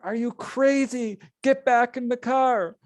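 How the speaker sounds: high panicky command; high pleading quote of a frightened friend; panicked friend. Retold or imitated. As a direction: order him back in fear.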